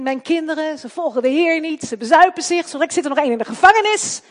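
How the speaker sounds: put-on a mother grumbling, then nearly shouting about her kids; complaining parent. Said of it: "Dat zei laatst iemand tegen mij".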